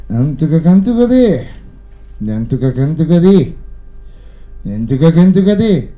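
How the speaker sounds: Tochigi dialect, small rising lilt on each phrase ending; Tochigi intonation. Retold or imitated. Passengers chatting on the train, in a Tochigi lilt. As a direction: mimic the Tochigi passengers' sing-song rise. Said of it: "と細かな右上がり".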